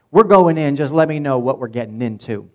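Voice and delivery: loud, punchy battle cry; rallying call. Retold or imitated. Preacher voicing Joshua rallying his spies, loud and bold. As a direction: fire up the troops.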